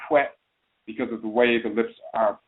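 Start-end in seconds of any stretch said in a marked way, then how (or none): 0.1-0.2 "hwe" said as "fwe", starting on f; FW sound. Shown as a demonstration. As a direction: say "hwe" with f-w at the front. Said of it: "pronounce it with an F W".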